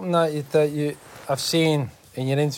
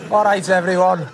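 louder, casual northern pilot announcement; 3 semitones higher, 6 dB louder than usual. Acted. Pilot greeting passengers, chummy northern announcement. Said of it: "a pilot to sound like me".

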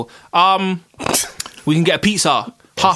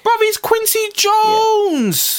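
high, drawn-out outraged disbelief; exasperated; much slower than usual. Real, not acted. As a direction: stretch it out in disbelief.

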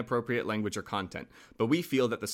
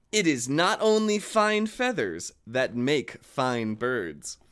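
grand reveal; slower than usual. Acted. Big reveal of moral.

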